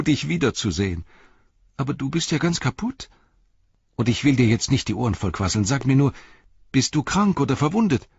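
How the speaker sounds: a lively hobbit relieved to find his friend; Pippin, eager young hobbit. A narrator's reading. Pippin voiced in reading.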